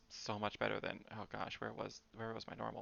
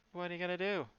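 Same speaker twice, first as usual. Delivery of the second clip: mock menacing line; 6 semitones higher, 4 dB quieter, faster than usual. Shown as a demonstration. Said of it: "I like that".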